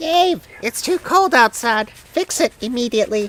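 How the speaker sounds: high-pitched pet-cat voice. Voicing the cat Betty talking to Dave, in a Betty Cat impression. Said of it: "was that a good Betty Cat impression".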